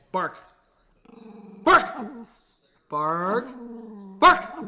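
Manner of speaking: high, loud commands to bark; pleading with the dog to bark on cue; coaxing the dog. Real, not acted.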